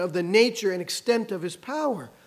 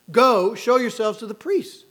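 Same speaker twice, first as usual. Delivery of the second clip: firm, louder order; retold command; 2 semitones higher, 5 dB louder than usual. Preacher voicing Jesus sending lepers to priests, retold command. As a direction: send them off with simple authority. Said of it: "He just simply commands them".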